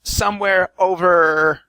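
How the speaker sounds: a hesitant, fluttery helper; Tabitha voice. Acted.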